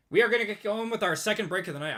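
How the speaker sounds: strained, worn-out voice; losing voice. Real, not acted. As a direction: voice going hoarse. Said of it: "I'm, like, losing my voice".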